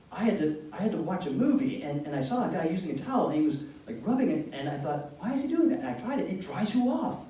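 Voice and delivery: put-on a teen's eager discovery, rising high; excited explaining.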